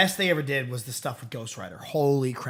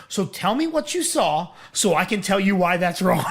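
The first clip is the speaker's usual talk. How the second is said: retold shouting girlfriend. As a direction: shout her challenge with a laugh in it. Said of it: "She's like".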